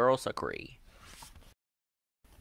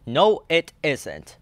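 loud, slow retort; barking Danny; 5 semitones higher, 9 dB louder, slower than usual. A narrator's reading. Danny barks back in the argument, loud. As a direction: snap back. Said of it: "barks Danny".

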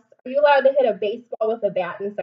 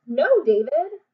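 scolding; 4 semitones higher, 4 dB louder, slower than usual. Acted. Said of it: "Tell him".

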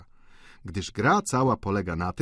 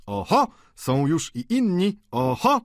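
high, lively "oho" greeting; jovial high-pitched welcome; boisterous exclamation; 9 semitones higher, 4 dB louder than usual. A narrator's reading. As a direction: call it out with playful surprise. Student greets arrivals noisily.

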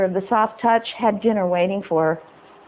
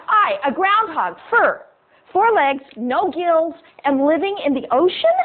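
a higher, huffy talking groundhog; indignant groundhog; 4 semitones higher than usual. Acted. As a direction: scold him like an offended little animal. Groundhog scolds ungrateful fisherman.

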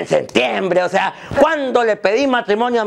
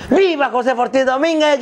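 higher, ceremonial cheer; Grito leader's cry; 4 semitones higher than usual. Acted. Comic acting out the leader of the independence Grito, crying out. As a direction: call out the hero's name to a crowd. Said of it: "el grito".

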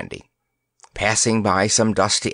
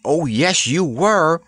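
crowing; 6 semitones higher, slower than usual. A narrator's reading. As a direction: crow it in triumph. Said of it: "crowed Randy".

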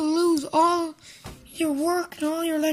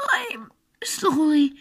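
dying words; slower than usual. Pretend. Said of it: "pretend like you're dying".

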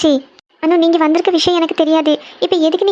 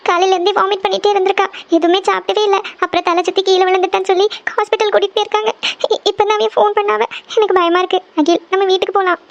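put-on higher, worried rush about the sick child; pleading to go home at once; a mother scared for her child, close to crying; frightened, near tears; 4 semitones higher than usual. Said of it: "எதுக்கு அழுதுட்டு இருக்கீங்க?".

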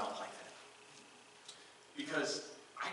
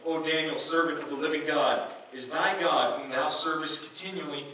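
louder, raised calling out to Daniel; lamenting cry; 2 semitones higher, 6 dB louder than usual. Acted. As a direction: call out in anguish to the den. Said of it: "he cried with a lament voice".

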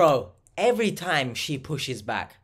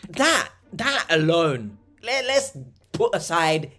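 louder, emphatic outburst of disbelief; exasperated rant; 3 semitones higher, 4 dB louder than usual. Real, not acted. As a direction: hammer it home, fed up with her denial. Reactor rants at scam victim's denial.

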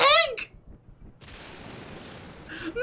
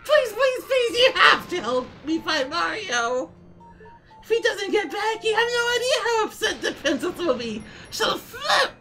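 Toad voice. Acted. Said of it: "I'm glad you all enjoy my Toad voice".

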